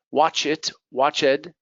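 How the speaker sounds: "watch ed" as two separate words; learner's error, "watch ed" sounding like "watch it"; mispronounced -ed ending. Shown as a demonstration. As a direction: give "ed" its own full syllable. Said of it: "sounds like watch it".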